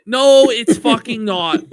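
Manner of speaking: usual speaking voice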